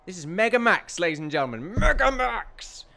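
stretched, booming mock-hype call; hype announcement. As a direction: shout the name like a ring announcer. Announcing the room name.

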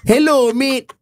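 hammed-up Aussie small talk; fake Australian accent. Malay hosts faking an Australian accent for a famous singer. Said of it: "speak with a fake Australian accent".

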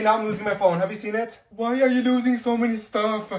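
normal talking voice

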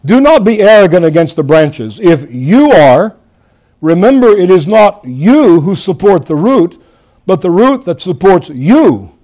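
each YOU set apart and leaned on; stress on YOU. Shown as a demonstration. Preacher reading Paul's warning to Gentile believers, stress on YOU. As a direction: read the verse, punching every "you". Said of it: "I'm going to emphasize the word you".

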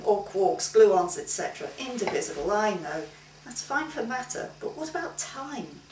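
lightly voiced genial old sage; amused, patient old teacher voice; old philosopher voice. Democritus voiced in story.

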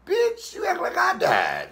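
mama shouting. Retold or imitated. Mama scolding her sobbing son with a high exasperated shout. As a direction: yell at him, fed up. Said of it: "My mama said".

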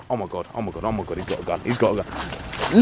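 a terrified aside under the breath; scared hush. Acted. Vlogger seeing a gun in the car, scared hush.

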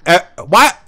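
can't believe what's on screen; shocked disbelief. Real, not acted. Gamer reacting to a cutscene, shocked squeaky disbelief. Baffled by the game scene.

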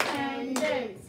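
Independence in separate beats, one per syllable; clapped syllables. Shown as a demonstration. Teacher leading the class clapping Independence, beat by beat. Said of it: "Let's clap the syllables in independence".

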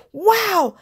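breathless and high after playing; out of breath. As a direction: gasp it out, winded from play. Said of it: "said the new kid breathlessly".

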